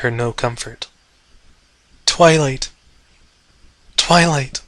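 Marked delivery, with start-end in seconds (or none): 2.0-4.6 small sobbing voice. Acted. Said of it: "came his small voice in sobs".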